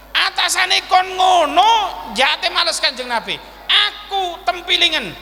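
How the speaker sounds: acted fierce indignation; indignant Umar. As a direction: leap up and challenge him angrily. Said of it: "Wah, ngoten ketika Sayyidina Umar".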